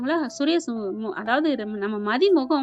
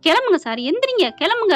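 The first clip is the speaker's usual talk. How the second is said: acted insistent urging; 5 semitones higher, 3 dB louder than usual. Husband orders boss to get up.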